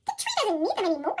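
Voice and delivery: squirrel dismissive. Acted. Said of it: "said the squirrel".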